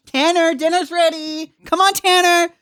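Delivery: put-on high, loud mum calling her kid; yelling across the room. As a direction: shout for him from the next room. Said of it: "the real, real bogan name".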